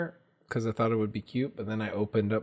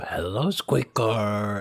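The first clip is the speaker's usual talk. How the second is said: eerie, creepy clown-like voice. Greeting a small pet in the voice the speaker uses with her, a creepy clown voice. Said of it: "that's the Pennywise voice".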